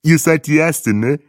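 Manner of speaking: high, loud put-on guide voice; cheery tour guide. A narrator's reading. Tour guide welcomes travellers to Namibia, high and hearty. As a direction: greet the group high and full of cheer.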